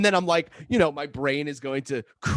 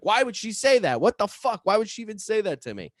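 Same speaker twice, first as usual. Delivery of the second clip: higher, worked-up bewilderment; retold anxious venting; 6 semitones higher than usual. Venting to Jacob about sister's secret, high and worked up. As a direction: vent as if rattled by a secret.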